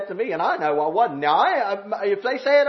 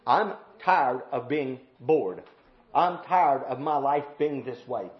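weary litany; 5 semitones lower, slower than usual. Acted. Believer tired of just enduring, weary complaint building. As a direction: start low and slow, lift each repeat.

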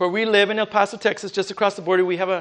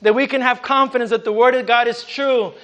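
fervent preaching. Acted. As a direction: preach it to the saints with fire. Preaching at full force.

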